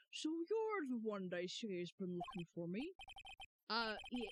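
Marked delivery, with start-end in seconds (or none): 0.1-2.9 lightly voiced old lawyer. Player voicing Grossberg to the visitor, lightly done. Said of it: "What voice do I want to give him?".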